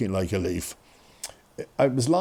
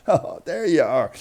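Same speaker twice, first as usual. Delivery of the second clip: slow, raised voice, lightly imitated porter; porter's greeting; 4 semitones higher, slower than usual. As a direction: draw it out on spotting the patient. Porter spotting his patient.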